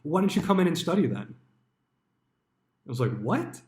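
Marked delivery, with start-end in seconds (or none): 0.0-1.4 pushy boss. Retold or imitated. Manager pushes studying on Easter. 3.2-3.6 incredulous what. Retold or imitated. His incredulous reaction.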